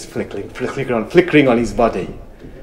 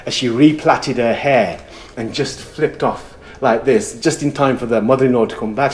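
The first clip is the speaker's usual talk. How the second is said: ordinary delivery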